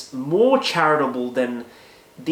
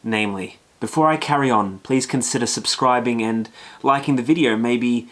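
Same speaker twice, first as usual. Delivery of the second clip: earnest book review reading. Acted. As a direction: read it like a sincere essay.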